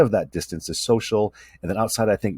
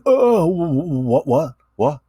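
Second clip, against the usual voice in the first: put-on flustered boyfriend; 9 semitones higher, 6 dB louder, slower than usual. Boyfriend caught looking, flustered.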